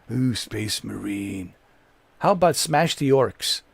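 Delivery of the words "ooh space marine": slow, drawn-out mock awe; mock hype. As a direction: imitate the fans' awe, dragging it out. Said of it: "Everybody's been telling me".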